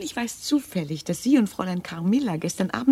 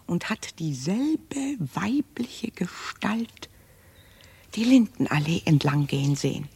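hushed, slow ghost-story whisper; spooky whisper; 3 semitones lower, slower than usual. Acted. Maid telling Laura of the ghost, whispering. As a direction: lower your voice for the eerie part.

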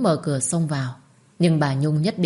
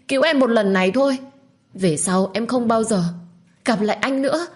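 refuse, then beg with everything left; young mother crying out to her lover; tearful desperate pleading; 5 semitones higher than usual. Acted. Minh refuses, begs to be saved.

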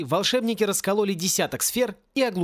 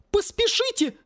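roaring. A narrator's reading. Woman turning monster urging haste, high roar. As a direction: screech it as an order. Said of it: "взревела мисс Сьюзан".

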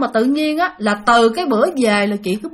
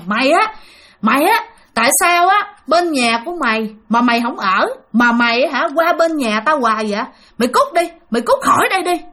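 mildly heated scolding in a raised pitch; retold angry cursing; 2 semitones higher than usual. Sick cousin drives the visitor out of the house, mock angry scolding. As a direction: act out an irritated telling-off, without shouting. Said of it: "Vừa chỉ mà vừa chửi".

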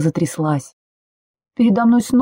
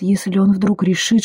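usual speaking voice

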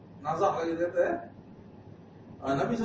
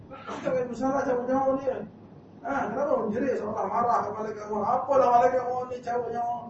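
high indignant rebuke; 7 semitones higher than usual. Acted. Angel rebukes wailing family.

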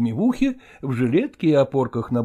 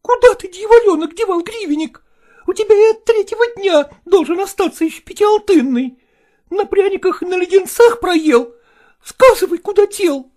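much higher, louder anxious mother's questioning; scolding mother; 6 dB louder than usual. Acted. Mother demanding where her son spent the coin, high and loud. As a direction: press the boy hard, half in tears.

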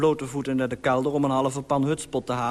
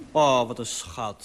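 tender; 5 semitones lower, slower than usual. Retold or imitated. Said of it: "werd ze helemaal week".

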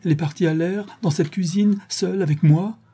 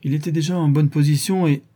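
higher, tearful outburst; crying; 5 semitones higher than usual. Acted. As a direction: sob it out, voice pitched up. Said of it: "en larmes, avec de gros spasmes".

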